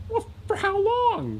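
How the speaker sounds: very high, drawn-out plaintive whine; whining. Acted. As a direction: wail it like grounded kids. The three whine at being grounded.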